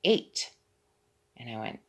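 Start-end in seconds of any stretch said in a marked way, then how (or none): 0.0-0.5 imitating the resident. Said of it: "And she said".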